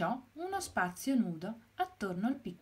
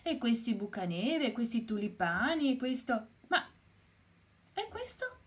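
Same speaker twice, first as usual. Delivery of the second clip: listing, then a high surprised question; counting bulbs until one puzzles her; mildly surprised hen; rising puzzlement; 4 semitones higher than usual. Acted.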